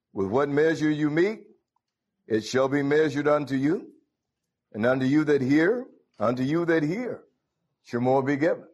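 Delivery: measured, rising scripture reading. Acted. Preacher reading scripture to the congregation, measured. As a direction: read the verses out with weight. Reads scripture aloud in service.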